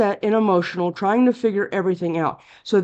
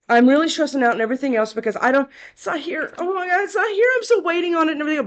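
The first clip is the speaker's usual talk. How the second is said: mock panic; 5 semitones higher, faster than usual. Imitating the querent's panic.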